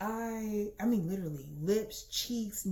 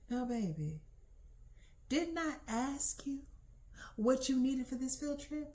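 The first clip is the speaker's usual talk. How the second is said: imitating scolding mom; 5 semitones higher than usual. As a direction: play a mom drawing out her reproach. Mom gently scolding in a story.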